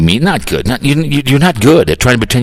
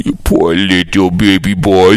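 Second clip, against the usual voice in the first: mock baby talk; 5 semitones lower, slower than usual. Mocking the host as baby.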